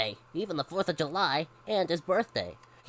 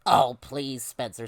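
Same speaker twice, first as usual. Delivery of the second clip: low, weary mom dismissal; unimpressed parent; exasperated; 4 semitones lower, 4 dB louder, slower than usual. Acted. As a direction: brush off the drama with an eye-roll. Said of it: "rolling her eyes".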